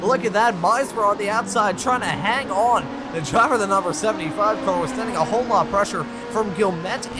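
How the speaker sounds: excited side-by-side race call; motorsport commentator. Real, not acted. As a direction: narrate the wheel-to-wheel fight. Live race play-by-play.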